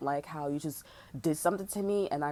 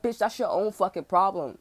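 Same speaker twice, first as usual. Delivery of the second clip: angry retort; 6 dB louder than usual. Retold or imitated. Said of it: "I'm like".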